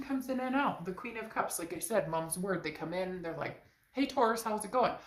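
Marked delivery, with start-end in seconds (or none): 3.9-4.9 high, breezy fake-friendly hello; mock casual greeting. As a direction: greet like a flaky texter. Mocking a flaky texter.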